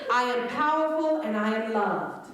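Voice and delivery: bright, declaiming affirmation with weight on powerful; buoyant affirmation. Shown as a demonstration. Comic leading the crowd's affirmation, buoyantly. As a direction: proclaim it like you mean it. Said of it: "repeat after me in your most buoyant voice".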